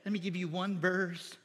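slow, softened, drawn-out pastoral blessing; soothing feel-good preacher. Acted. Preacher mocking another church's easy sermon, soothing imitation. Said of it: "another church where they just say".

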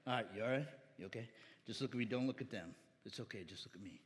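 soft, low comforting murmur; reassuring hush. Real, not acted. Soothing nervous boy on stage.

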